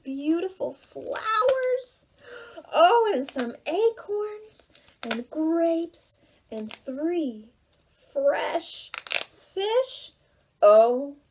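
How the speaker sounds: savouring each item, slowly; gloating goat. Acted. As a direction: relish every dish like a greedy goat. Goat lists food greedily.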